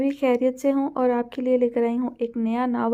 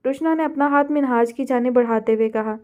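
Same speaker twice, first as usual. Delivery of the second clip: plain reading voice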